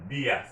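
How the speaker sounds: "dias" said DEE-as, first syllable stressed. Shown as a demonstration. Teacher explaining the written accent, stress on the I in dias. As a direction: hit the i in "dias". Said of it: "stressing that I".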